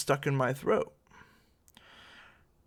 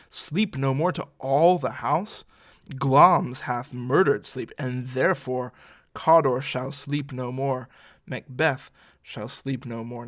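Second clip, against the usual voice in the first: dramatic declaiming; 4 dB louder than usual. Acted. Teacher performs Macbeth's haunted lines.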